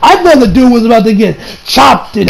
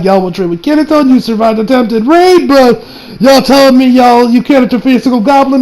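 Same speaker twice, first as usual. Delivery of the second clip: raised-pitch mock questioning; incredulous rebuke; 5 semitones higher than usual. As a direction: question them with exaggerated doubt.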